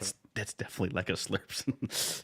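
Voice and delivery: altered by a voice changer app. Real, not acted. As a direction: speak through a voice changer. Voice Mod app in use.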